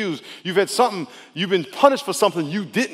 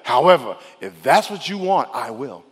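Jesus; 2 semitones lower than usual. Acted. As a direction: yield to the Father, voice sinking. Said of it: "Jesus is going through the same thing".

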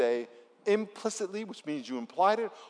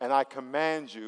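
leading a call-and-response prayer. Shown as a demonstration. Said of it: "say this out loud".

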